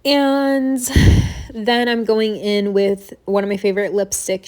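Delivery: slightly breathless talk; talking a little winded; out of breath. Real, not acted. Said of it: "Sorry if I am a little bit out of breath".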